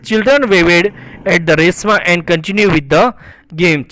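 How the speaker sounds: slow, measured English reading; story read-aloud. A narrator's reading. Teacher reading a story sentence to students, slow read-aloud. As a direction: read each phrase out slowly and deliberately.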